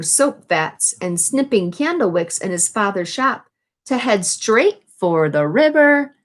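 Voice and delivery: put-on reading to children. A narrator's reading. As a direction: tell the story to the class with relish. Reads picture book to class.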